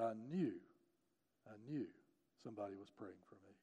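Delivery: low, very soft retold quote; quiet, awed daughter's reply; hushed realisation. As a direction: let it sink almost to nothing.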